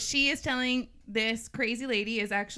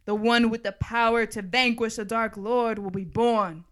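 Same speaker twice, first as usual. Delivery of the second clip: solemn prophecy reading; 4 dB louder than usual. Acted. Host reading the prophecy to the others, portentous recital. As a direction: proclaim it like a prophecy.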